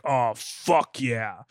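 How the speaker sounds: low, slow, drawn-out moan of arousal; sexual tone. Shown as a demonstration. Host shows listeners the right tone for dirty talk, sultry. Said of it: "say them in the right tone".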